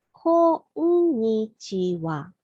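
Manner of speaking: こんにちは slowly in five beats, こ-ん-に-ち-は; five syllables. Shown as a demonstration. Teacher spells out five beats slowly. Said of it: "we have to say five syllables".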